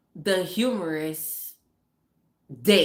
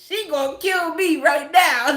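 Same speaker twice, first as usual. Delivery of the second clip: panicked son; 7 semitones higher, 7 dB louder than usual. Retold or imitated. Son's fearful thought, voiced.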